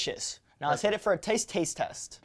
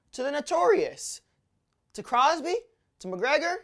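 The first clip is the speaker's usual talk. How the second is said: higher-pitched toast, pausing between names; ceremonial toast; 8 semitones higher, 4 dB louder than usual. Acted. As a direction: raise each name like a toast. Raised-glass toast before a shot.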